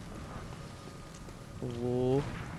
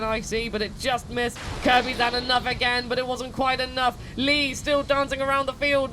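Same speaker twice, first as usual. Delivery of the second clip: lively play-by-play commentator; sports commentary. Acted. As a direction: call the fight like a sportscaster. Live play-by-play of the fight.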